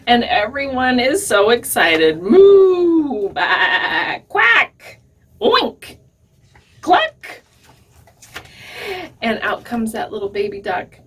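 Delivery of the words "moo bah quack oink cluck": moo, bah, quack, oink, cluck, each one a different high animal call; farm animal noises. Acted. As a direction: play the whole barnyard cheering the new duckling.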